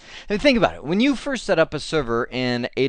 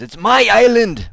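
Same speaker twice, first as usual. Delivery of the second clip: put-on loud, higher, half-hearted Scottish accent shout; Scottish Braveheart yell; 7 semitones higher, 8 dB louder than usual. Retelling the crazy guy in Braveheart, loud mock Scottish yell. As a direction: bellow it like a wild Scottish warrior, bad accent. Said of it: "with a much better Scottish accent than I can".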